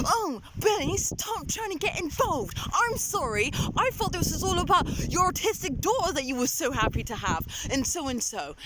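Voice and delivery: a hint of an exasperated father; mock yelling dad. Imitating dad telling Billy off, lightly mocking.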